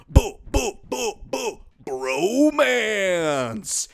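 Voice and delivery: drawn-out cooing boo boo; sing-song boo. Acted. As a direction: coo it like teasing lovebirds. Playful bromance sing-song.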